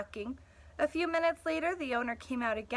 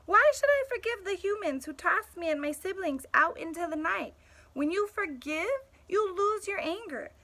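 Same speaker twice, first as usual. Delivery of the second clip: bitter dog; 5 semitones higher, 5 dB louder than usual. Acted. Bitter dog narrator monologue.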